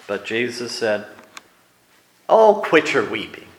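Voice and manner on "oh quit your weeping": impatient brush-off; harsh rebuke. Shown as a demonstration. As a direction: scold the mourners the wrong way. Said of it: "Think he said it like that?".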